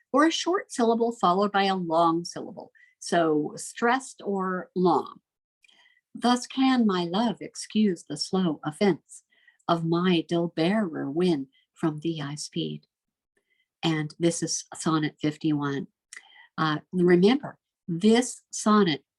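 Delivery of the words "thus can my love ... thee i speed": slow, measured verse reading; poetry recitation. Acted. Teacher quoting a sonnet's couplet to students, measured recitation. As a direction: read the couplet slowly, falling away at the end. Reads lines of sonnet fifty-one.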